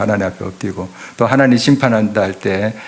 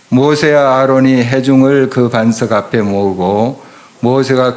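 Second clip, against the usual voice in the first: reading scripture aloud together; 2 semitones higher than usual. Shown as a demonstration. Pastor leading the church in reading the verse, in unison. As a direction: read it out with the congregation, steady and strong. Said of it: "한번 이것도 한 목소리 읽어볼까요?".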